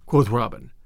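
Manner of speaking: ordinary delivery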